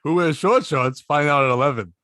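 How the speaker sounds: punchy late news promo read; newscaster voice. Retold or imitated. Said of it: "that annoying newscaster voice".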